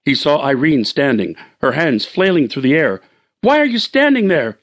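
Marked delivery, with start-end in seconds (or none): 3.4-4.6 shout. Acted. Husband shouts at wife standing still, mild shout. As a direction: yell at her to move. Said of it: "he shouted to her".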